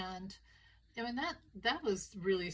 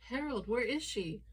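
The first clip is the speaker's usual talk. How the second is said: higher, acted demand; a hint of indignant wife; lightly voiced accusing wife; 4 semitones higher, 3 dB louder than usual. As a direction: confront him as the wronged wife. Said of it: "the wife stops pacing and says".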